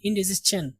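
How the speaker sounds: इंडिजेशन ending between sha and cha; ch sound. Shown as a demonstration. Teacher explaining the final sound, chan ending. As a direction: end इंडिजेशन on a soft chan. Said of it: "यहाँ पे चा की आवाज आएगी".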